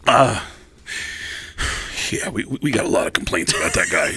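low, hesitant deadpan voice; stall, then admit it in a low voice; tattoo shop worker. Retold or imitated. Shop worker answering an angry customer, low and sheepish. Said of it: "this is what he hears from the tattoo shop".

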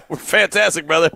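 laughing through the words; amused laughing greeting; laughing reply. Real, not acted. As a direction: answer while laughing. Host laughs answering caller.

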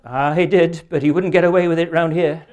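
loud, lightly voiced elder's retort; kirk elder. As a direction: deliver the elder's punchline loudly. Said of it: "accosted by an elder of the kirk".

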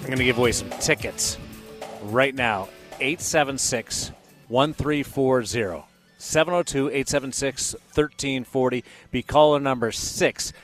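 upbeat on-air ticket giveaway; radio contest promo. Acted.

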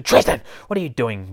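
sudden yell of the name; startled-mother scolding; sharp calling out. Acted. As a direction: call him out sharply, then settle. Wilma catches Tristan searching.

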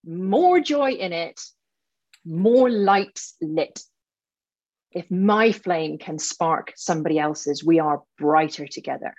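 rally her like a fired-up coach; passionate rant. Acted. Coach launches her announced rant at the client, fired up. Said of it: "here comes Ranty Sally".

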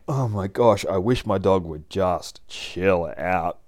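exasperated, drawn-out grumble; hammed-up owner's grievance; mock complaining. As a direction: complain wearily, stretching the end. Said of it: "I know I'd be complaining".

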